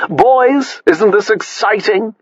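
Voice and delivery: high gushing society matron; posh society lady. A narrator's reading. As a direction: gush brightly like a rich socialite.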